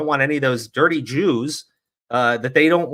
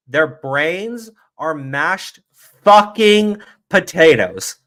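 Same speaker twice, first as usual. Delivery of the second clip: slow scornful emphasis; 3 semitones higher, slower than usual. Real, not acted. Streamer repeating his verdict on opponents, slow building scorn. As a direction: stretch each word, building to the curse.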